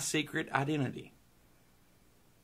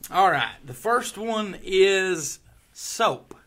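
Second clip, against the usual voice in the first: game-show host; 5 semitones higher, 5 dB louder, much slower than usual. Acted.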